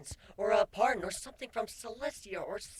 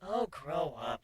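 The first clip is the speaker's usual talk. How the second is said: chiding; 6 semitones lower, slower than usual. Acted. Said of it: "she chided".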